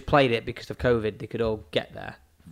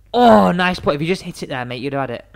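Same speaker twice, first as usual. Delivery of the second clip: raised, loud "oh" easing into a dig; mock praise; 4 semitones higher, 5 dB louder than usual. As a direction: fake encouragement to wind up a friend. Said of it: "I'll say horrible, nasty things".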